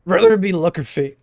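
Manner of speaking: lightly voiced deep old mentor; a hint of a groggy old man. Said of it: "my cringe Rise voice".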